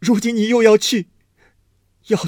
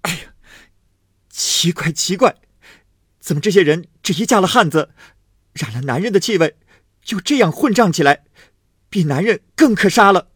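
high, loud, fast furious rant; bitter outburst; 10 semitones higher, 7 dB louder than usual. A narrator's reading. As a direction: spit out the outrage, racing. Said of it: "方指着恨道". (愤恨地高声快骂)

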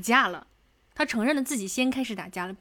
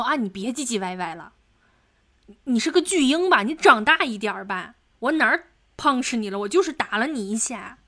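louder scornful jab, retold; mocking taunt; 5 dB louder than usual. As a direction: sneer at him like she's scolding a baby. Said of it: "就是去嘲讽". (语气嘲讽，声音更响的转述)

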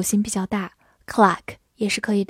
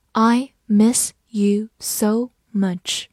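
slow tender read; much slower than usual. Shown as a demonstration. Teacher reading a love line slowly to students. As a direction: let the love line linger. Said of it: "这句情话".

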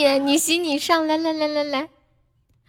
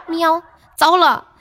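cat meow; 5 semitones higher, slower than usual. Shown as a demonstration. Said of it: "喵是吗？".

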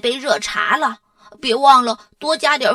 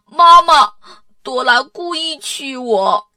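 loud, high, slow whine; upset calling out; 4 semitones higher, 7 dB louder than usual. A narrator's reading. Arthur calls mum that Dora annoys him, upset. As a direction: wail to mum like a wronged child. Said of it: "亚瑟难过地喊着".

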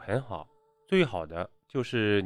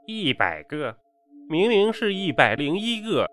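put-on piercing old man's voice, leaping much higher; shrill old man; 5 semitones higher than usual. A narrator's reading. Old man correcting his servant's count, shrill and piercing. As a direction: correct the servant in a sharp, high-pitched voice. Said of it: "用尖声锐耳的声音说道".

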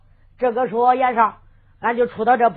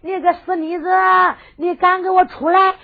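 calling her out, a touch higher, slowing on the last cry; shouting a challenge; 5 semitones higher than usual. Acted. Young hero challenging the girl thief, calling her out. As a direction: taunt the girl thief to come out and fight. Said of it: "小严少喊着跑着".

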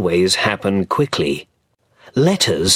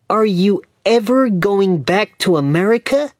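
voiced Dick; 11 semitones higher than usual. A narrator's reading. Dick asks Mr Hobbs.

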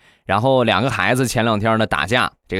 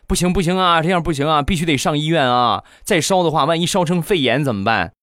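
anxious mother; 6 semitones higher than usual. Retold or imitated. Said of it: "然后我媳妇儿她闺蜜就说".

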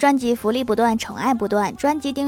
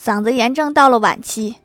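raised, urgent doctor's call; doctor's shout; 4 dB louder than usual. Acted. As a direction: call out the grim verdict, mock-alarmed. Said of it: "医生就大喊".

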